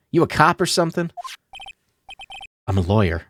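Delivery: put-on southern accent. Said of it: "southern accent this whole stream".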